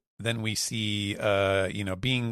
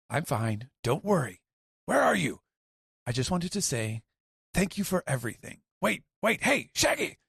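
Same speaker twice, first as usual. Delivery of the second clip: Shaggy; 8 semitones higher than usual. Retold or imitated. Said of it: "Shaggy says".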